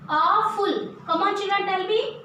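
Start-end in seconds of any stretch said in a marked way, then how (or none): 0.1-1.0 "Awful" with a drawn-out AW; long AW-ful, falling at the end of "Awful"; pronunciation demo. Shown as a demonstration. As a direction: model "Awful" carefully, stretching the first syllable. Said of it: "kindly look at its pronunciation".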